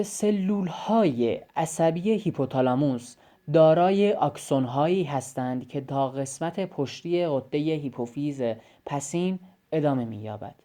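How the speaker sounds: textbook reading. Shown as a demonstration. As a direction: read it out like the book itself. Reads textbook sentence aloud.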